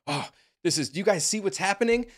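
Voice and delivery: high, loud whiny mimic of the passenger; mock her self-righteous plea; mocking imitation. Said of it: "the lady's, like".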